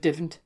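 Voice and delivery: "divn't" for don't, starting with "div"; Geordie dialect. Shown as a demonstration. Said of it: "that becomes div instead".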